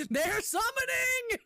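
tiny high-pitched squeak, slow; squeaky high voice. Pretend. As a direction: squeak it out like a little creature. Repeats in a squeaky voice.

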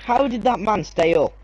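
screamed very high and loud; disbelieving scream. Real, not acted. Disbelief that enemy survived.

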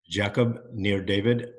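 put-on light French Israeli accent on the name. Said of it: "with my French Israeli accent".

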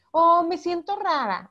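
hammed-up "me siento rara", stretched out; mock vague answer. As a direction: imitate someone dodging the question. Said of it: "en México decimos de pronto".

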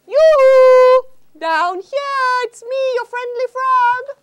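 high loud calling frog. Acted. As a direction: call up cheerfully as a frog. Frog calls from below.

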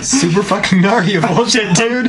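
excited exclaim. Real, not acted. Friend gleefully calling back the joke, rising up.

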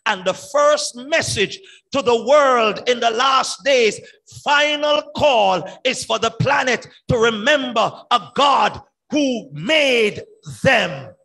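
loud, ringing proclamation; preaching shout. Real, not acted. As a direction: call it out to the whole world. Preacher proclaiming final call.

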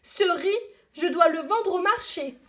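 put-on girl telling the dragon off; girl answering. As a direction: scold the dragon like a brave little girl. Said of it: "répond petite sœur Lee".

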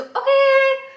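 surprised okay. Retold or imitated. Mock reaction to job title.

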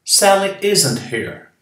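American English with a clear R in "here". Shown as a demonstration. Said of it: "Veja como o americano fala".

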